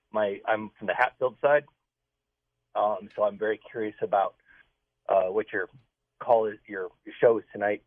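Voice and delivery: cold, trembling voice; shaking voice from cold. Real, not acted. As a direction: talk while shivering. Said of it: "I'm freezing to death right now".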